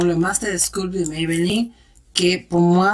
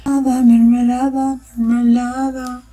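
playful exclamation; 4 semitones higher, 4 dB louder than usual. Pretend. Playful Spanish exclamation, sung out.

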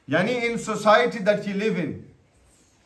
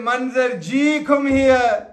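respectful call; 2 semitones higher, slower than usual. Shown as a demonstration. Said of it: "come very quickly and happy".

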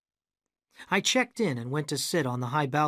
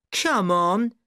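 higher, louder impatient shout; 6 semitones higher, 6 dB louder than usual. A narrator's reading. Arabella shouting at the narrator. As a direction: shout at him to get moving. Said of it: "Arabella shouted".

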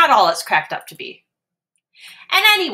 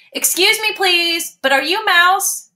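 high, polite little kitten; 10 semitones higher, 3 dB louder than usual. Acted. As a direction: ask nicely like a small kitten. Max asks politely.

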